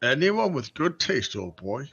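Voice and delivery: slow, drawling posh British toff. Acted. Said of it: "He suddenly become very British".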